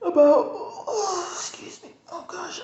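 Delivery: high laughing break with a soft excuse me; storyteller to viewers, breaking into laughter; real laugh. Real, not acted. Laughs, loses composure mid-story.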